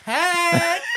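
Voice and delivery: loud, high, drawn-out mock condemnation; scathing verdict. Imitating Sean's verdict on the movie, loud scathing put-down. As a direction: imitate a friend trashing a film, stretching the words hugely. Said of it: "It's how he said it. He goes".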